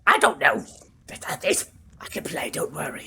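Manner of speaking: high, loud fussy character voice; high NPC voice. Acted. GM voicing the worried NPC to the player, high and loud. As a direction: answer in the NPC's high fluster.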